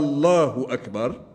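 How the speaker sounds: first vowel of "الله" drawn out long; lengthened opening hamza. Shown as a demonstration. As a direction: stretch the opening A of "الله" into a question-like "Aallah". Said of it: "في مد الهمزة".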